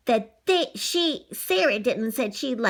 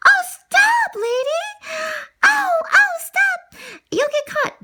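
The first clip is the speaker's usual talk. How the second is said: high loud frantic cries; high alarmed Lady calling out; panicked warning; 3 dB louder, slower than usual. Acted. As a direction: shout in panic to stop him. Lady warns Tramp in panic.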